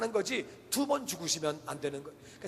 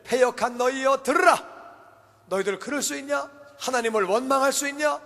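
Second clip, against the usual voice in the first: acted outburst of Moses, pitched high; scolding leader who has lost his temper; angry rebuke; 5 semitones higher than usual. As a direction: berate the crowd indignantly. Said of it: "모세가 열을 받은 거예요".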